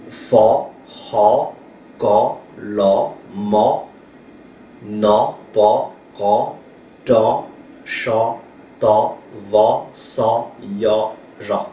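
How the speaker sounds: each consonant read with an A, spaced apart; teacher's measured roll-call of Hmong consonant sounds; consonant recitation. Shown as a demonstration. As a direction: recite FA, HA, KA as separate syllables. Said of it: "se prononce".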